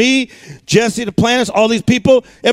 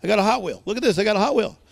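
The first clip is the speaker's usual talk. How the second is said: put-on child showing toy; 5 dB quieter, much faster than usual. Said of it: "keep showing this".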